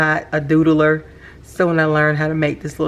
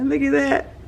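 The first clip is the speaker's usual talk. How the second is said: squealing far higher and louder; real excitement; 4 dB louder, slower than usual. Real, not acted. Thrilled by the ink's sheen, a real squeal. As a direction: squeal with delight over the ink. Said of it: "I'm sorry if I'm so excited".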